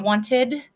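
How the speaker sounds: "wanted" ending in a clear "ed"; ED as its own syllable. Shown as a demonstration. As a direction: pronounce both syllables of "wanted". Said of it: "it says ed".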